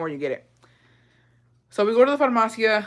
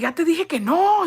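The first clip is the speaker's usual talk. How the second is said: imitating an annoyed dad; 9 semitones higher than usual. Dad snapping at pushy seller.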